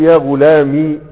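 يا غلامي said slowly with a short -i on the mim; kasra, no ya. Shown as a demonstration. Teacher slowly showing the dropped ya to students. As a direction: clip the ending to a short i. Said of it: "بميم مكسورة وحذف الياء".

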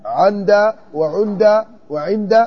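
"عند وعند وعند" said slowly, with kasra, then fatha, then damma on the first letter; teacher slowly demonstrating the three vowelings of عند. Shown as a demonstration. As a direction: spell out عند slowly as ʿind, ʿand, ʿund. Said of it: "إلا إذا قلت".

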